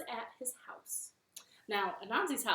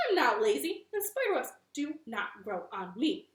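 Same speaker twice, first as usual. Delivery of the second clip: indignant spider; 2 semitones higher, 7 dB louder than usual. Acted. Anansi retorts to Hippo.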